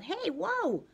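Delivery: high, alarmed shout of protest; driver yelling. A narrator's reading. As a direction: bus driver losing the wheel, shouting in alarm. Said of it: "the driver yelled".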